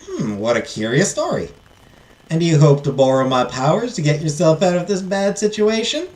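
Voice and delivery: put-on fairy godmother with a Southern accent; curious Southern-accented fairy. Fairy questioning the heiress about her request, Southern accent. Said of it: "give her a southern accent".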